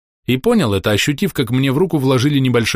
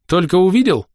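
higher, louder gurgle with a laugh; gurgling chuckle; 9 semitones higher, 4 dB louder than usual. Acted. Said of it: "Со смешком пробулькал я".

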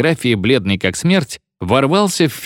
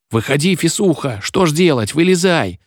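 pleading pupils; 6 semitones higher than usual. A narrator's reading. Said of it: "молили его ученики".

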